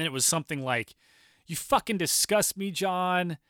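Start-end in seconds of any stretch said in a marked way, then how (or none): 1.5-3.4 wife telling John off, mildly hammed-up disgust. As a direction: spit out mild retold disgust. Wife keeps scolding John.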